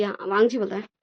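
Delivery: usual speaking voice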